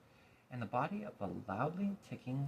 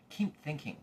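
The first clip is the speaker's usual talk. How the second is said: scolding; 5 semitones higher than usual. Acted. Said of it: "scolded the watchdog".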